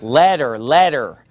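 letter with an eh sound, as a German says ladder; letter with a flat eh, German accent imitation; German-style e for a. Shown as a demonstration. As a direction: say letter, eh not ah, twice. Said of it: "you wanted a ladder".

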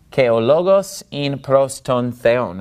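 connected Greek, "logos" stressed on "lo"; modern Greek pronunciation. Shown as a demonstration. Teacher repeating the phrase in modern Greek pronunciation. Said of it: "we're using modern Greek pronunciation".

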